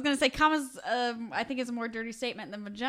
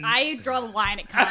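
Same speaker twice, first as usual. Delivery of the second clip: loud; 6 dB louder than usual. Real, not acted. Joking outburst about cleaning.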